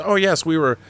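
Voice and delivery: mild mocking Kurtzman; mock Alex Kurtzman. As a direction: hem and haw like a caught-out producer. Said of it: "does interviews".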